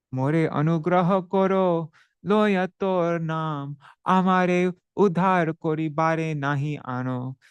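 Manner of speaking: Bengali verse read with devotion; verse recitation. Acted.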